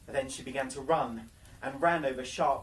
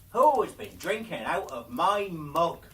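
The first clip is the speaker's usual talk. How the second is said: louder, odd-timbred dwarf question; a gruff little dwarf demanding an answer; 3 semitones higher, 8 dB louder than usual. Acted. Seventh dwarf asks.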